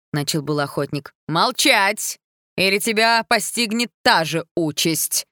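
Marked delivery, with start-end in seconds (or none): 1.3-5.3 loud, slower shouted warning; queen shouting down the hunter; shouted threat. A narrator's reading. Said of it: "криком перебила его королева".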